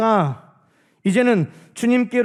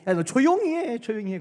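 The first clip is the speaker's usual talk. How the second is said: crowd scolding; 3 semitones higher than usual. Retold or imitated. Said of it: "사람들이 막 꾸짖고".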